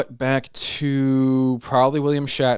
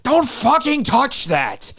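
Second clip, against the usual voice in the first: loud, slow Eastern European grandma yell; Eastern European accent; 11 semitones higher, 4 dB louder, much slower than usual. Retold or imitated. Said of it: "In some Eastern European accent".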